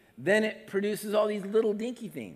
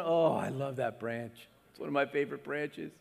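fond Jesus; 2 semitones lower than usual. Pretend. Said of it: "Jesus is going".

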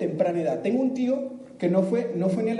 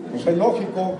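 smug inner voice, a touch louder and laughing; inner squirrel voice; 4 dB louder than usual. Retold or imitated. Speaker mocks the audience's inner squirrel, smug laughing voice. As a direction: play the know-it-all squirrel. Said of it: "qué les está diciendo la ardilla".

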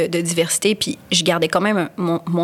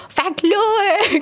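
put-on high, drawn-out caricature of Québécois accent; practising a thick Québécois accent, high-pitched; 12 semitones higher, slower than usual. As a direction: put on a slow, exaggerated Québécois twang. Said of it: "fais la québécoise".

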